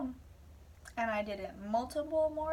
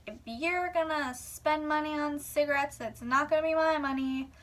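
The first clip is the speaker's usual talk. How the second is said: higher, firm parental telling-off; mock motherly lecture, raised pitch; scolding mom; 4 semitones higher, 3 dB louder than usual. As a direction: imitate a mother laying down the law. Acts out mother scolding her.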